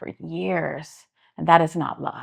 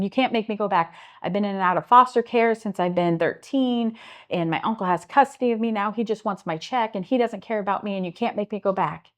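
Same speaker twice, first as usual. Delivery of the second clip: retold desperate protest; 3 semitones higher than usual. Retold teen refuses foster care.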